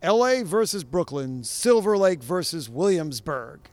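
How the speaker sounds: booming hyped announcer voice; fighting game announcer. Pretend. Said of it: "I'm gonna do it in the full announcer voice".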